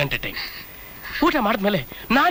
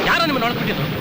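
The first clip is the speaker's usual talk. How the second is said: ordinary talk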